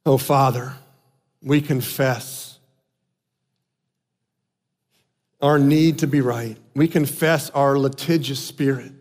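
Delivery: low, subdued prayer with long pauses; prayer of confession. Real, not acted. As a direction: pray it softly and solemnly. Leads congregation in prayer.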